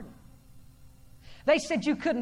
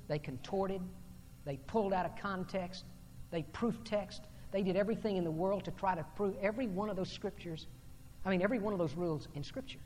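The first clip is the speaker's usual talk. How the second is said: low, softer quoted reflection; lowered preaching voice for a retold confession; subdued quoting; 5 semitones lower, 9 dB quieter than usual. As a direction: quote him quietly and reflectively. Retells an author's words in hushed delivery.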